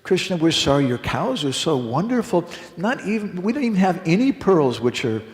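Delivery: lightly acted sarcastic flattery. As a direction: pretend to be sorry while poking fun. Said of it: "in a very sarcastic way".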